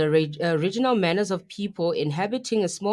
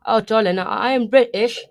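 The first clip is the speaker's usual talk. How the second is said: emphatic, louder fake British accent; mock British accent; 6 dB louder than usual. Host insisting to co-host on being British, in a mock British accent. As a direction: declare it in a playful British accent. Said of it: "killing it with this accent".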